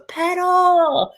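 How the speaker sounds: high yelled order; shouted command. Retold or imitated. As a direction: bark it like a coach. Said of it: "that guy goes".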